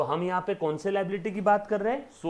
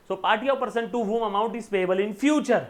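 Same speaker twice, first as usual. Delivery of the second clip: slow dictation; much slower than usual. Acted. Dictating a definition slowly.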